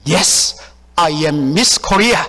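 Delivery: slow, proud declaration; mildly hammed-up confidence, word by word; confident. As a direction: imitate someone announcing a title with assurance. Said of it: "자신 있게 알고 있는 영어를 합니다".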